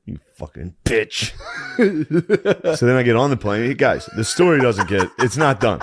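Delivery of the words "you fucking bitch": slow, laughing jab; laughing insult. Real, not acted. Teasing a friend, laughing as he swears. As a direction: tease through a laugh.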